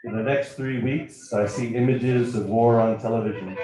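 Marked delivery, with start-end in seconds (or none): none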